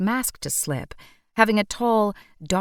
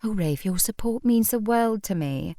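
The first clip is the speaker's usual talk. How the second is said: "your support means the world to me" in a hammed-up, swooning British accent, stretching "means"; mock Ellen with a gushing fake British lilt, "means" lifted; 4 semitones higher than usual. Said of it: "fake, swooning British accent".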